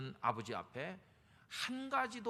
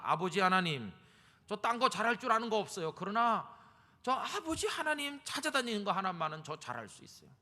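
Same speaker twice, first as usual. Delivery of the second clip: loud, high pleading cry to God; impassioned plea, louder and higher; fervent prayer; 5 semitones higher, 6 dB louder than usual. Acted. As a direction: call out to the Father with all your heart. Believer's fervent prayer acted out.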